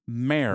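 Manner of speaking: Mare with the air sound, like care; mare rhymed with care. Shown as a demonstration. Husband showing how his wife says it, Mare like care. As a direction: say Mare like a horse. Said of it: "It's supposed to be nightmare".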